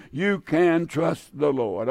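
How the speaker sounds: tender. Real, not acted. Tender reassurance to listeners.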